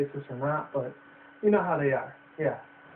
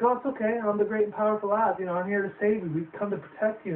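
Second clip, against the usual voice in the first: a touch higher, mock reassuring hero; lightly voiced grand wizard; 5 semitones higher than usual. Oz reassuring the crying girl, lightly voiced. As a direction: play the great Oz, lightly hammed. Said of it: "he's like".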